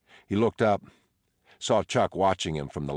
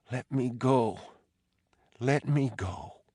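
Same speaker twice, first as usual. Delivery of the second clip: pleading high wife's voice; 8 semitones higher than usual. Acted.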